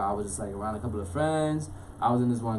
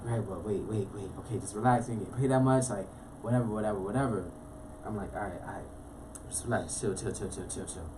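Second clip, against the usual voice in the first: softer, hushed self-talk; self-calming; 3 semitones lower, 6 dB quieter than usual. Retold or imitated. Telling himself to relax after buying the ticket, hushed. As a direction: talk yourself down from panic. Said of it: "calming himself after buying ticket".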